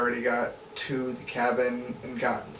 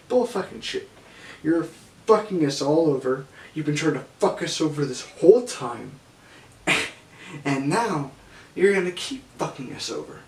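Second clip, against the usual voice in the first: retold angry yelling; 3 semitones higher, 3 dB louder than usual. Gun-holding grower yelling at the thief, mock-furious. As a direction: bark the accusation like a threatened guard. Armed grower accusing the narrator.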